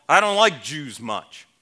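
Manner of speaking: mock Southwestern drawl, a bit loud; lightly put-on Southwest twang. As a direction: imitate a blunt man with a Southwest drawl. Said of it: "in a Southwest drawl".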